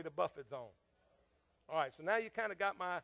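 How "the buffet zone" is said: call to congregation. Acted. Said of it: "Everybody say".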